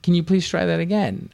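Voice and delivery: high, prim robotic phone voice; imitating a phone assistant, high and prim; mock Siri voice. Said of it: "I was like".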